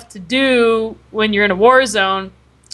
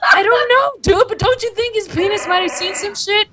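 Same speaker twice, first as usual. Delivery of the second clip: giggly excitement; 8 semitones higher than usual. Real, not acted. Laughing over absurd dream.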